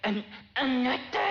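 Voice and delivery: mildly nasal, coy little coo; a light mock of a coquettish wife; nasal coaxing. Husband demonstrates the nasal coo he wants from wife, lightly mock. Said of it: "鼻にかかったような声でもって".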